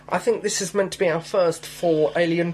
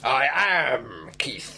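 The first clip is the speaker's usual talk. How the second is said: slow whispered jaw-out voice; underbite; much slower than usual. Pretend. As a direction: whisper it slowly with the jaw pushed out. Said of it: "grasping the air with my clawed hand".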